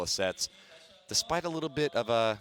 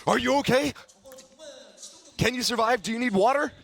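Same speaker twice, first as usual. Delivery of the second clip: mock concern; 11 semitones higher, 3 dB louder, faster than usual. Real, not acted. Teasing co-caster over sour candy.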